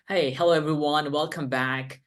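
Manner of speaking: easy, welcoming greeting; friendly. Shown as a demonstration. Teacher greeting viewers to demo tone, friendly. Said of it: "this is like a friendly tone".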